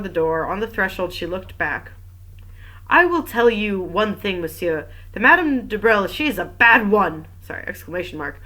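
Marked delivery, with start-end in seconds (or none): 2.9-7.3 louder, pointed warning; damning verdict, hit hard; emphatic warning. Acted. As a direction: warn him with punch on the key words. Old woman warns from threshold.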